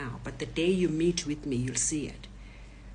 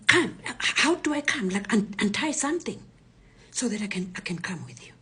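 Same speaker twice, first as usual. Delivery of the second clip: urgent retold plea; 3 semitones higher, 4 dB louder than usual. Tied-up woman asks robber to loosen something, urgent retold plea. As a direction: plead to be untied, acting it out.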